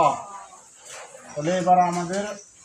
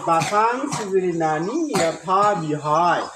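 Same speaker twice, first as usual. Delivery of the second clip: slow recitation; much slower than usual. Shown as a demonstration. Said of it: "নিতে হবে".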